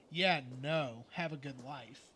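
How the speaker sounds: low, firm mock refusal; dismissive brush-off. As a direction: play it as a curt, pretend send-off. Voicing a receiver refusing a caller.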